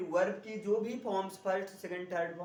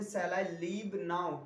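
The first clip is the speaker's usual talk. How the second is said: movie-style English line; 3 semitones lower, much slower than usual. Retold or imitated. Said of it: "कुछ लोग ऐसे बोलते हैं".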